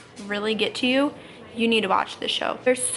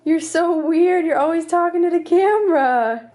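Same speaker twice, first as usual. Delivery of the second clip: voicing the baby; 6 semitones higher, 6 dB louder than usual. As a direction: speak for a baby judging mom. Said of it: "He's just looking at me like".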